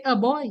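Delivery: put-on "A boy" with a weak uh first; Roseau pronunciation. Shown as a demonstration. Linguist shows what they say, Roseau pronunciation. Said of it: "When I'm in Roseau".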